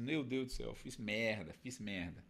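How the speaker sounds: quiet, sinking voice of a cop who knows he blew it; mock dismayed mutter. Commentator imitating the cop realizing his mistake, a soft dismayed mutter.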